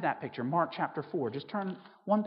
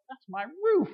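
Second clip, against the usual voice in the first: higher, put-upon homeowner complaining about his roof; indignant homeowner; 7 semitones higher, slower than usual. Retold or imitated. Homeowner protesting the hole in his roof, indignant. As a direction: play the annoyed owner whose roof got wrecked. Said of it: "you'd be like".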